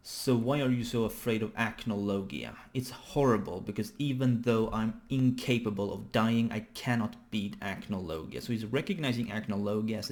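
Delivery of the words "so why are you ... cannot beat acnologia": measured, emphatic character dialogue; dramatic manga reading. Acted. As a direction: read the lines out with dramatic emphasis.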